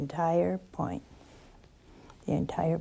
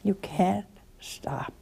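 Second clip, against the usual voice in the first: slow whisper; slower than usual. Real, not acted. Addressing overworked listeners.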